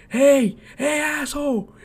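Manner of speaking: high, heckling Philly accent, mocking; Philly fan accent. Philly fan taunting a Mets fan after tossing his phone, heckling Philly accent. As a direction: jeer it like a rowdy Philadelphia fan, Philly accent. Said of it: "this guy had the strongest Philly accent".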